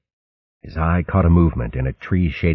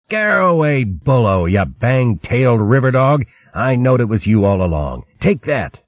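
teasing shout; 5 semitones higher than usual. Acted. Gonf wrestling otter, teasing.

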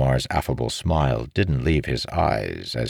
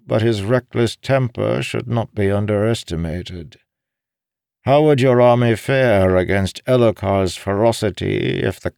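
higher-pitched, pointed character voice; pitched-up captive making his case; old schemer persuading; 7 semitones higher, 3 dB louder than usual. Acted. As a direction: press the king with argument in a raised voice. Voices Balanmar persuading the king.

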